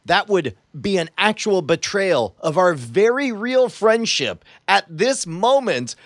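slow, mock-dramatic appeal; earnest plea. Player begs Justin over their friendship, earnest plea. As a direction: plead slowly as a betrayed friend. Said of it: "I say".

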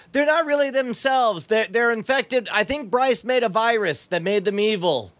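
high-pitched dramatic announcement; shouting to the audience. Acted. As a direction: proclaim it to the crowd. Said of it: "I turn to the audience and I shout".

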